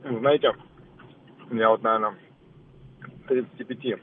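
words stretched through a yawn; talking mid-yawn. Real, not acted. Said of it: "Да я просто зевнул".

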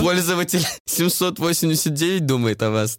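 chipper text to speech voice. Pretend. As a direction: read it like Google Translate. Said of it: "Google Translate".

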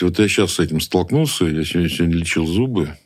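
slight lisp after dental work; lisping from a missing tooth. Real, not acted. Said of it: "Поэтому я шепелявлю".

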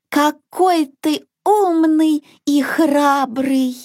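high-pitched duckling praise; admiring cheer. Acted. Ducklings admire brave Tim, high cheering voice. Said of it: "хором закричали утята".

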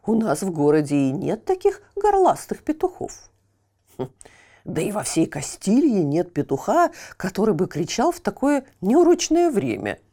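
mildly voiced watchman grumbling; indignant townsfolk. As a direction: complain about the noisy rooster. Watchman and wife marvel.

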